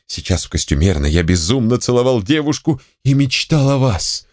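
high, wild, half-mad confession; frenzied raving. A narrator's reading. Ivanushka raving his love to Saltanova, high and frantic. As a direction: rave it out as a man losing his mind.

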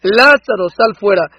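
loud call. Acted. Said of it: "Entonces él solo dijo".

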